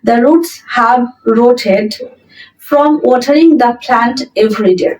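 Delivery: very slow, word by word dictation; slow model sentence. Shown as a demonstration. Teacher reading the example sentence aloud to students, very slow and clear. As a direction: spell it out slowly for learners. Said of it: "আমাদের আগে লিখতে হবে".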